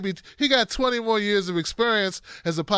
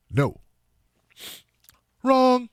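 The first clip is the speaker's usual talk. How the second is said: Trump impression; 3 semitones higher than usual. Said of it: "you sound like you're doing a Donald Trump imitation".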